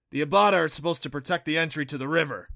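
a hint of an earnest guide character; creature guide explaining. A narrator's reading. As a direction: explain it briskly and loudly. Narrator voices Neff, the creature guide.

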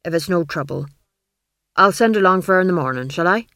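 eager blacksmith. Acted. Smith voiced, eager to leave.

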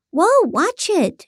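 high, drawn-out startled warning; calling out. A narrator's reading. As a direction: call out to stop a collision. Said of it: "she called out".

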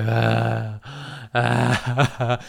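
mock groan, half sob; imitated half-crying moan. Dude about to pass out, imitated moaning. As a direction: mimic moaning in pain. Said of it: "half crying, half, like, moaning".

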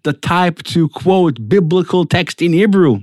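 mildly surprised listeners, voice lifted a little; retold disbelief at an unlikely quoter. Audience questioning a secular doctor's Hebrew quote, mildly surprised. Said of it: "people are, like, surprised".

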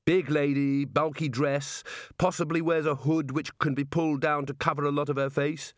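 mildly hopeful, scheming prisoner; perked up, feigning casual interest; brightened. A narrator's reading. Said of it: "Rincewind brightened".

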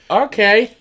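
high-pitched, incredulous okay; lightly hammed-up high disbelief; mock baffled reaction. Voicing own baffled reaction.

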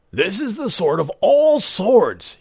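put-on high, slow, grand old voice; tempting old magician. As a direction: show off the sword, awed. Disguised giant offers sword.

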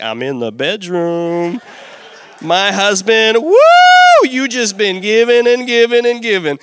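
mock sultry wife calling from the bedroom, loud and high; mock seductive wife. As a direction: play the teasing sultry wife over the top. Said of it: "not the kind of love connection".

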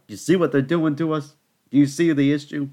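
high, loud, exasperated plea; rally her against the injustice; indignant outburst. Retold or imitated. To the lady beside him in the theater, indignant and loud.

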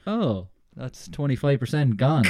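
slow, laughing mock despair; rueful laughing groan; laughing dismay. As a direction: laugh at your own doom. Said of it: "I was like".

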